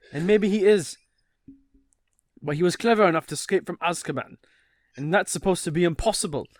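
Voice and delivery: put-on British, lightly emphatic; British accent. Reading Mr Weasley making his case to his wife, British accent. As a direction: argue in an amateur British accent. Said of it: "Gotta get into British character".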